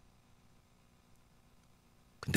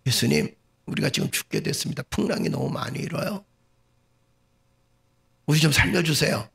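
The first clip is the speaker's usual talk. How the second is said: disciples begging to be saved, rising in pitch; acted plea for help; 4 semitones higher than usual. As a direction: plead urgently, as an example of polite asking. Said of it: "자, 일 번 이렇게 얘기합니다". (살려 달라고 애원하는 연기)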